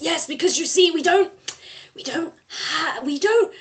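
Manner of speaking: tearful denial. Acted. Brothers deny having a father.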